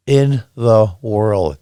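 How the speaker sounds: very slow, drawn-out In the world; deliberate, spaced-out repeat; slow emphasis. Real, not acted. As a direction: stretch every word for weight.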